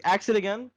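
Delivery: "Ask" said like "axe", a short flat a with a k-s sound; New York ask. Real, not acted. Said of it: "Did you say ask or axe?".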